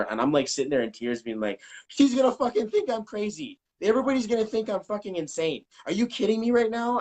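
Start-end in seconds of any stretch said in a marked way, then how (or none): 1.9-7.0 higher, frantic retelling of his own panic; mock panicked outburst. Telling the podcast host how he panicked, in a high mock frantic voice. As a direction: replay the freak-out, voice jumping up. Retold panic about seeming crazy.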